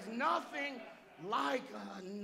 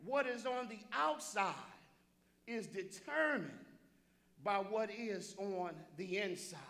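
spaced-out phrases in a full preaching voice; deliberate repeat. Real, not acted. Preacher repeating his key point for the congregation, deliberate and firm. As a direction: hold the pauses and keep the voice up. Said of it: "let me say it again".

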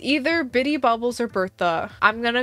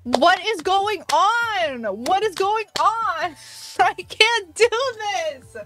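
disbelieving wail; 9 semitones higher than usual. Real, not acted. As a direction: plead with the universe in disbelief. Disbelief at another orange villager.

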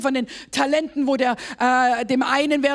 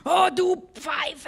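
slow, drawn-out mock scolding of oneself; playful self-insult; 4 semitones higher, much slower than usual. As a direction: scold yourself in jest. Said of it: "Sachen über mir sagen möchte".

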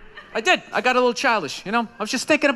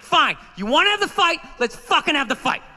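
snapping; 3 semitones higher than usual. Retold or imitated. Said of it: "and I snap".

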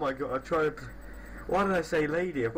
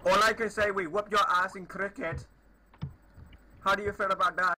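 put-on Indian accent; 3 semitones higher than usual. Prankster boasting to a stranger about cricket, put-on Indian accent. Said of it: "I am from India".

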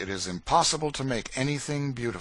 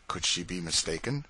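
ordinary delivery

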